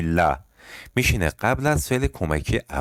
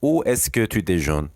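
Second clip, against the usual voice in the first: slow repeat; much slower than usual. Shown as a demonstration.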